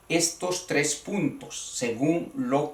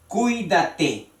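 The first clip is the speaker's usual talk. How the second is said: Cuídate sounded out with stress on the í of cui; teacher's careful CUÍ-da-te for Cuídate; stress demonstration; 3 semitones higher than usual. Shown as a demonstration. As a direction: stress the second vowel in the first syllable of Cuídate. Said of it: "en la segunda".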